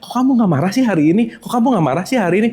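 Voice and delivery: fast, nagging voice of anger itself; a quick, lightly acted needling demand. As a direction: rattle it off as the pestering anger. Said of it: "si marah teriak-teriak".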